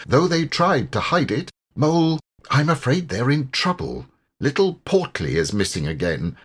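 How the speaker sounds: worried river rat, earnest and warm; a concerned old friend telling bad news; Water Rat voice. Rat tells of the missing Portly.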